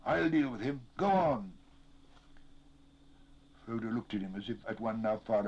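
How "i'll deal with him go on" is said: high, loud urgent orders; breathless raised-voice urging; gasped urging. A narrator's reading. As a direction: shout them onward, no time to spare. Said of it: "he gasped".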